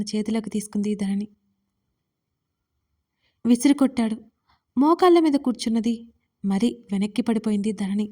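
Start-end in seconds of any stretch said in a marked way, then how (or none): none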